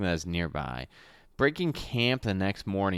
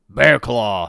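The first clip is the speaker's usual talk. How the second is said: guard voice; 3 semitones higher, 12 dB louder than usual. Acted. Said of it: "he replies".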